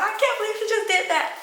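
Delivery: high, quick mock wail; fast, high-pitched whiny complaint; imitated upset. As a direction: wail over mom in retold disbelief. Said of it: "I was so upset with my dad".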